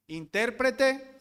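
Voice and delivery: Intérprete with the stress on IN, slow; INtérprete, first syllable stressed. Shown as a demonstration. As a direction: land hard on the IN of Intérprete. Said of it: "No es lo mismo decir lástima que lastima".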